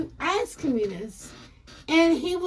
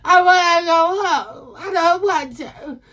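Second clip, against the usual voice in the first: mock whimpering; slower than usual. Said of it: "So I was like".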